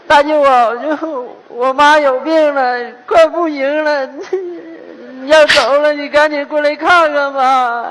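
drawn-out, pleading bad news; put-on grief, stretching the words slowly; feigned distress. Son phoning his uncle about his sick mother, feigned distress.

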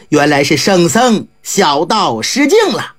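low, humble and slowed; bow and apologize; apologetic Daoist. A narrator's reading. Daoist apologizing to the monk, low and humble.

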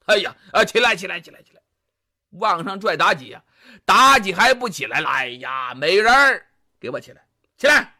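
急急地连声劝起，带点焦躁; 君王着急拉美人起身; 纣王心疼. Acted. 纣王急着拽妲己起来. (纣王急切劝妲己起来)

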